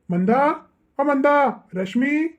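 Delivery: drawn-out summons, name after name; calling out. Acted. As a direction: call names through the house. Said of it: "हाक मारली काय तुम्ही".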